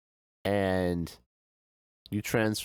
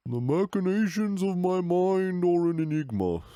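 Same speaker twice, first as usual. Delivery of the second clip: mock grandiose; 9 semitones higher than usual. Grandiose self-mocking pronouncement.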